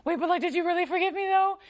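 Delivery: high, fast, fretful voice; a worried pleading doubter, hammed-up; anxious doubting believer. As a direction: fret out loud, pitch climbing. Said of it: "And we're like".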